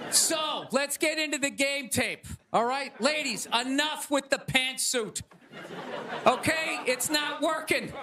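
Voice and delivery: hammed-up halftime lecture to the players; mock coach pep talk. Comic plays coach giving team talk.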